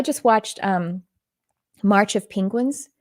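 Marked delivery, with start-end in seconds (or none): 1.8-2.9 slight Texas vowel in Penguins; Texas accent. Real, not acted. Naming a film she just watched, Texas accent. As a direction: let Texas slip into Penguins, slowly. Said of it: "I said it with my Texas accent".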